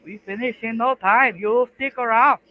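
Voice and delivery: hammed-up Asian accent, slowed. Streamer in a mock Asian accent urging his friend. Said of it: "Asian, trying to speak English".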